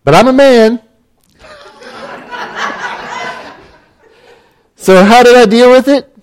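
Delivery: high, laughing self-mockery. Real, not acted. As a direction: laugh through the words. Laughing at his own stubbornness.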